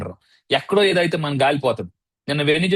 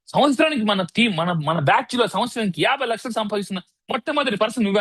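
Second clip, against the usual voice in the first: retold tearful praise; 5 semitones higher than usual. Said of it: "నా ఏడుపు చూడాలా".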